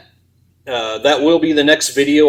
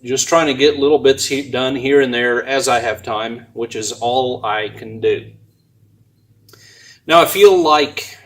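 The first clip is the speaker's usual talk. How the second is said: talking while chewing gum; words around a wad of gum. Real, not acted. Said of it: "sorry, let me get rid of this gum".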